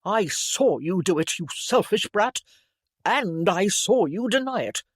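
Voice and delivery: loud, heated sibling accusation; angry scolding. A narrator's reading. Brother to lying sister, heated scolding. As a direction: reel off the old grievance sharply.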